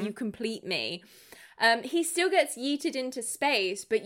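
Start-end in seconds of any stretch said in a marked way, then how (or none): 0.0-1.0 mock Joker villain. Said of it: "full on jokering him".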